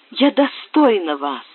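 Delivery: выше и громче, медленно и твёрдо; утвердить каждое слово; возглас. Acted. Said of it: "вскричала вдруг Сюзанна". (Сюзанна твёрдо заверяет Бриана, возглас)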